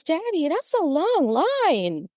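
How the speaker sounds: put-on high, drawn-out child's sing-song; little girl. Little girl to her daddy at the polls, imitated child voice. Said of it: "a little girl walked past".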